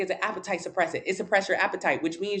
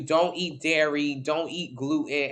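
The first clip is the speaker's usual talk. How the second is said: lightly voiced mock-serious warning; mock rule voice; 3 semitones lower, slower than usual. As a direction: lay out the rules slowly, mocking. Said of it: "Your blood type is gonna tell you".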